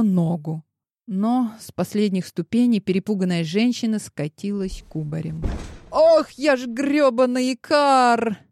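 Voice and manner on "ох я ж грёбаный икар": slow, higher, louder indignant cry; indignant outburst. A narrator's reading. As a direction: blast it across the lobby. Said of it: "Разлетелась возмущённая". (возмущённый крик, выше, громче и медленно)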